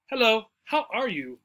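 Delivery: "are" gently stressed in "how are you"; greet, leaning lightly on "are". Shown as a demonstration. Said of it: "we might stress the word are".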